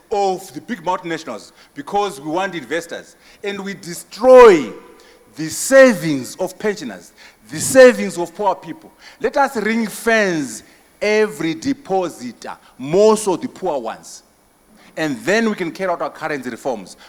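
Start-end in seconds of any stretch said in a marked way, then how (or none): 3.4-13.4 rising outrage, voice up hard; impassioned outcry. Real, not acted. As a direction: thunder it at the audience. Impassioned outcry in political speech.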